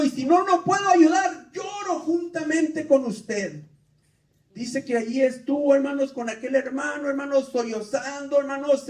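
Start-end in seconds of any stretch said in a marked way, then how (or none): 0.0-3.6 impassioned shout. Retold or imitated. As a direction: cry it out, I'll weep with you. Pastor comforting weeping man.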